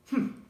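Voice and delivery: a sniffy grunt of disdain; scoffing grunt; sour humph. A narrator's reading. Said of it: "humped a voice".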